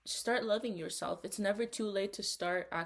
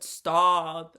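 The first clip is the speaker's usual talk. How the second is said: retold stop; 10 dB louder than usual. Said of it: "I said".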